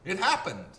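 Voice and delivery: laughing, high and loud; laughing reply. Retold or imitated. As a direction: laugh it out, sure of yourself. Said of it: "I said".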